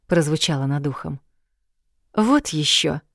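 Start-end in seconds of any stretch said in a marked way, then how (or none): 2.1-3.0 snorting dismissal. Acted. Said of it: "фыркнула я".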